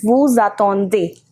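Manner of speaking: "vous attendez" linked as voo-za-ton-day; "vous attendez" with the s voiced as z; with liaison. Shown as a demonstration. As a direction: join "vous" to "attendez" with a z sound. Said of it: "here also it becomes".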